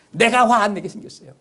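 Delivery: indignant retort. Retold or imitated. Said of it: "이 성경 보면 이렇게 합니다".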